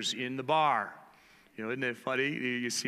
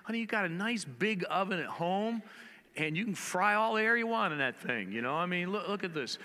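to wife; 7 semitones higher than usual. Retold or imitated. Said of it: "I said".

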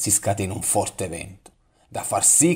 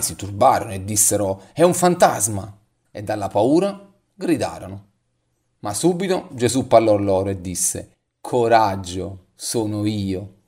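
measured, solemn Bible reading; scripture reading. Acted. Pastor reading the storm passage to the congregation, solemn scripture reading. Pastor reads Matthew 14 aloud.

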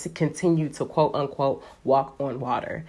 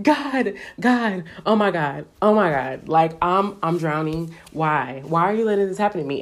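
mock panic; 2 semitones higher than usual. Believer sinking in quicksand cries to God, mock panic.

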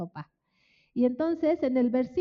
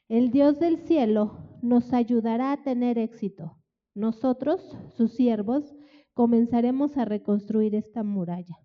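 loud, ringing sermon proclamation; full-voiced preacher's declaration; preaching loud; 6 dB louder than usual. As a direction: proclaim it to the whole church. Preaching the answer loudly.

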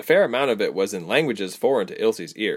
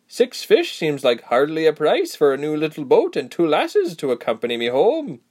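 put-on cocky young man; 7 semitones higher, 4 dB louder than usual. A narrator's reading. Boy bargains, voiced.

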